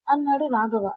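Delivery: ordinary delivery, nothing marked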